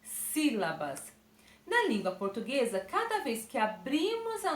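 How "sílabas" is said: sílabas stretched slowly, falling; drawn-out teacher word. Shown as a demonstration. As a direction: lean on sílabas, slow and falling. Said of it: "divide essa palavra em".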